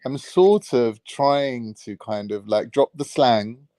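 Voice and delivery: slow, lightly put-on posh British accent; careful posh accent, slang dropped. Shown as a demonstration. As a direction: speak slowly in an unrefined posh voice. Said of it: "Let me hear your posh voice".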